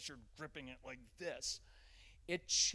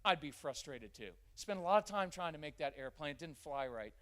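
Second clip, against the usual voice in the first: validating; 2 semitones higher, 4 dB louder than usual. Shown as a demonstration. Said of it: "It would be better to say".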